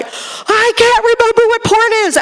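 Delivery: high, squeaky mock panic. Deckhand answering the yelling skipper in mock panic. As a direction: play a flustered deckhand who forgot.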